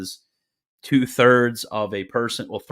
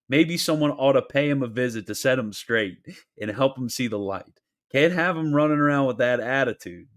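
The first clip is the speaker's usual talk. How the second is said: hammed-up Sicilian accent, slightly raised; bad Sicilian accent; 4 semitones higher than usual. Streamer playing a Sicilian making veiled threats, bad Sicilian accent. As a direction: attempt a Sicilian accent, badly. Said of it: "I can't do the Sicilian accent".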